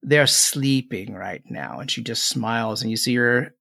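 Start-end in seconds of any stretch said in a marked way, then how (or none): 0.0-1.8 put-on old hag. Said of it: "the older one says".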